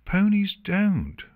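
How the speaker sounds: scowling. A narrator's reading. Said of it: "Octavia continued with a scowl".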